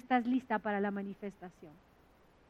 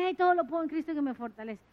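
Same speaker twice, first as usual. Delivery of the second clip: fast, glib recitation of todo lo puedo; mocking fast recital like an amulet; hurried mock quote; faster than usual. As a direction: rattle it off like a charm. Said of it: "utilizado como un amuleto".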